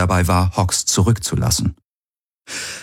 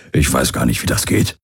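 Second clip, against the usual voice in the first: lower-pitched line with a hint of a grin; broad smile; 5 semitones lower than usual. A narrator's reading. Alien crewmate answering Kirai's plea not to play hero, smiling. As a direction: tease back lightly through a smile. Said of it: "sagte Hawks mit breitem Lächeln".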